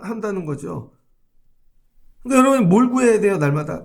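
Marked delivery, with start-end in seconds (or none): 2.2-3.8 rousing call. Real, not acted. Preacher challenges congregation loudly.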